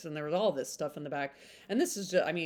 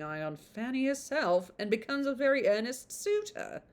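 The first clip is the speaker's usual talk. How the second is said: put-on blurb read on in a light British accent. Reading the blurb to viewers, still in a British accent. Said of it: "I do do British accent".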